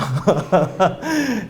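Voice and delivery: real laugh. Real, not acted. Laughing at his own story.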